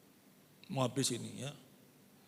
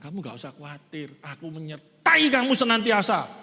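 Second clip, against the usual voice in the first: reassuring God; 4 semitones lower, 5 dB louder than usual. Acted. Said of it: "Ini dia ngomong".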